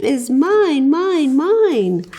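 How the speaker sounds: slow, a hint of a whining toad; whiny toad. Grumpy Toad claiming the cape, slow mild whine. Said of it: "Grumpy Toad starts to whine".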